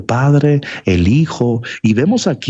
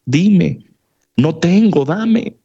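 pleading beggar; 4 semitones higher, slower than usual. Acted. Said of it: "se atreven a decir".

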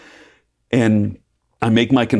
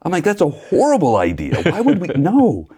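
mock-appalled, voice jumping high; incredulous balking; 10 semitones higher than usual. Camper reacting to the Jesus retreat invite, incredulous.

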